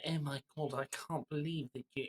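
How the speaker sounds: lightly mock an Eastern European mum's accent; terrible Eastern European accent. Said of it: "in a terrible Eastern European accent".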